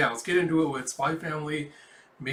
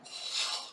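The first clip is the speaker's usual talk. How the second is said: sigh; 7 dB quieter than usual. Real, not acted. Sighing at the drawn face.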